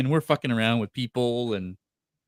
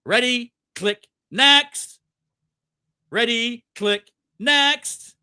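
high, louder clipped commands; rushed photographer; 9 semitones higher, 6 dB louder, much slower than usual. Retold or imitated. Photographer rushing fans through the photo op, clipped calls. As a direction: rattle it off like an assembly line. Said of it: "They bring you on".

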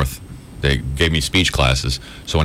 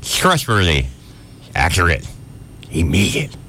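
tough promo read. Shown as a demonstration. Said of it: "So try this".

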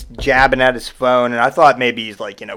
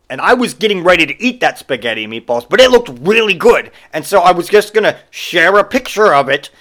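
whiny customer; 5 semitones higher, 5 dB louder than usual. Retold or imitated. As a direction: whine it like a put-out man-child. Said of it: "This is what he says".

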